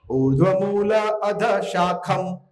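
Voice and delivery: ऊर्ध्व मूल then अध शाखम, slow with a pause between the word groups; phrasing demo. Shown as a demonstration. Teacher showing students where the verse breaks. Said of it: "इसलिए इस तरह से पढ़ना है।".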